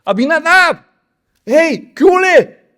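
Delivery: high, loud call across the camp; slow, loud hearty greeting. Acted. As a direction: hail the brothers from afar. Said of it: "Y ahí se saludan".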